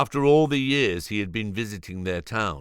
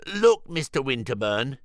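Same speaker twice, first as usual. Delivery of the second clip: flat; 5 semitones higher than usual. Acted. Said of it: "he said flatly".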